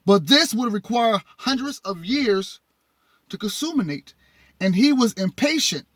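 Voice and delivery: measured, phrase-by-phrase read-aloud. Acted. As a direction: read the text out to an audience. Reads text aloud to audience.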